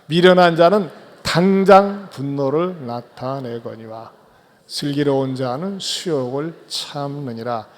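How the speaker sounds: slow, measured verse recital; a congregation reciting scripture in measured rhythm; slow unison recitation. Shown as a demonstration. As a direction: chant the proverb together slowly. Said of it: "같이요, 시작".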